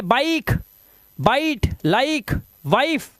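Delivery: slow बाइक, बाइट, लाइक with a clear ai glide; diphthong demonstration. Shown as a demonstration. Teacher drills the i-e rule, बाइक and बाइट with slow ai. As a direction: stretch the aa-ee in बाइट, लाइक, वाइफ. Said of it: "आई ही पढ़ना है इसको".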